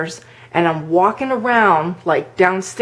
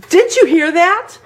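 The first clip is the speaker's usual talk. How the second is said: retold freaked-out question; 11 semitones higher than usual. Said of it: "like, freaked out".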